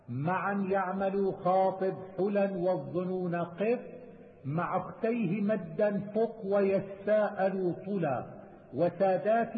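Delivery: slow, measured metrical recitation; didactic verse recitation. Acted. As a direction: recite the memorised verse slowly, drawing out syllables. Recites didactic verse, then explains. (إلقاء منظومة علمية ببطء وعلى الوزن)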